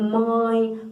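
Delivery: "mãe" with the A held and sounded through the nose; vogal nasal. Shown as a demonstration. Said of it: "tem um som mais anasalado". ("mãe" com o A anasalado)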